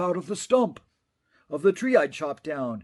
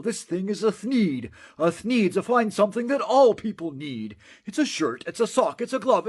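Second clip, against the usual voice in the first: higher, eager sales patter; salesman's pitch; 6 semitones higher than usual. Acted. Onceler selling the thneed to the Lorax, eager patter. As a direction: sell it like a fast-talking peddler.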